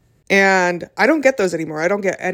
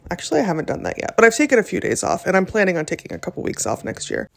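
quick, caffeinated rush of words; talking fast; faster than usual. Real, not acted. Podcaster rushing through time-off plans after coffee, talking fast. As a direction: rattle it off on a lot of coffee. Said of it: "I'm talking so fast".

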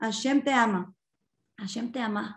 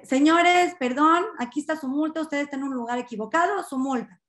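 lightly acted officer calling out, higher at first; police officer; 3 semitones higher than usual. Officer addressing two men in a car, lightly acted official call. Policía que pone una multa.

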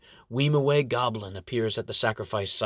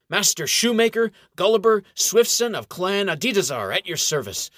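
proud introduction; 7 semitones higher, 5 dB louder than usual. A narrator's reading. Gulliver introduces himself proudly.

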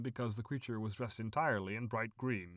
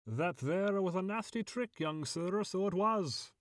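high, aggrieved leprechaun voice; gruff leprechaun; 8 semitones higher than usual. A narrator's reading. Caged leprechaun protests to the boy who trapped him, gruff. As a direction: scold like an indignant, gruff little creature. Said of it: "in a surprisingly gruff voice".

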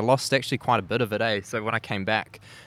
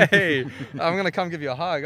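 excited; 7 semitones higher, 3 dB louder than usual. Real, not acted. Greeting someone arriving.

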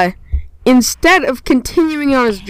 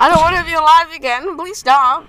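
quick, higher whiny plea; mock pleading; 3 semitones higher, faster than usual. Revived Danny begs not to live, mock pleading. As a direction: beg in a hurried, half-serious protest.

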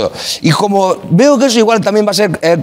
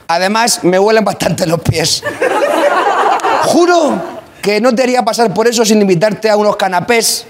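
grand poetry declamation; 3 semitones higher than usual. Pretend. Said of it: "Voy a proyectar mucho la voz".

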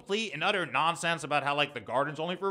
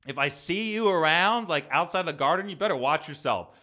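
real threat. Real, not acted. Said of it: "I'm making threats on my podcast".

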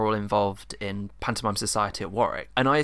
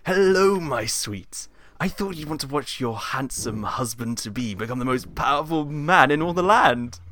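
pantomime villain; 4 semitones higher, 3 dB louder, slower than usual. Acted. Plays villain Jafar.

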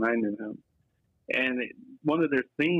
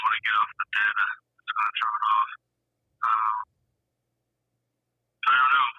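tin can voice. Real, not acted. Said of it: "It sounds like you're in a tin can".

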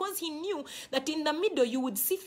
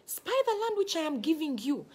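Spy the land stressed, higher; corrected quote; 5 semitones higher than usual. Shown as a demonstration. Preacher correcting the misquote, giving God's words emphatically. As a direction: insist on the land which I am giving you. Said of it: "not the land which I am".

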